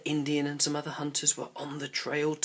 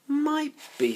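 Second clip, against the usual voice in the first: boy playing Indian; 4 dB louder than usual.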